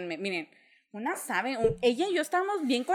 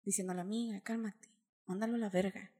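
outwardly calm; 5 semitones lower, 13 dB quieter than usual. Retold or imitated. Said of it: "yo por fuera así".

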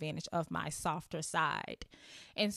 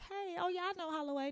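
mock bragger; 11 semitones higher, 5 dB quieter, faster than usual. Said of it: "someone's like".

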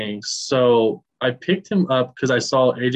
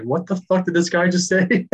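imitating an outraged fan, higher and laughing; mock pissed off; 5 semitones higher than usual. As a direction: play up the disbelief, amused. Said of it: "walking out of the stadium pissed off".

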